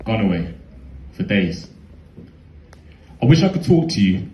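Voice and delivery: rhythmic performed recitation, measured and deliberate; spoken word poem. Acted. Poet on stage addressing his brother, performed recitation.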